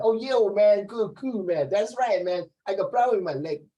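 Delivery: exaggerated American slang delivery; American accent. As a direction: imitate a casual American accent, lively. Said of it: "the accent is different".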